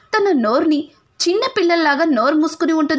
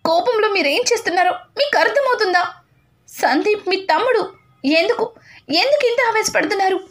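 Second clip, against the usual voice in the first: pleading to stop; 5 semitones higher than usual. Acted. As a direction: beg him to stop, pitched high. Wife stops angry husband. (భర్తను ఆపమని పైస్థాయిలో వేడుకోలు)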